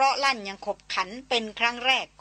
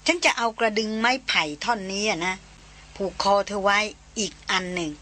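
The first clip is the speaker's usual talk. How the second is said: mild tender talk to a beloved animal; gentle. Acted. Darin tenderly explains the bell to her elephant. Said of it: "แล้วบอกเสียงอ่อนโยนว่า".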